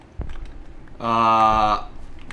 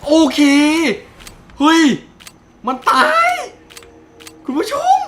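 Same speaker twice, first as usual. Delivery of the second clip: very high loud victory shrieks; ecstatic screaming; 11 semitones higher, 7 dB louder than usual. Real, not acted. Gamer just killed Siren Head, screaming to viewers in joy. Monster dies, ecstatic yelling.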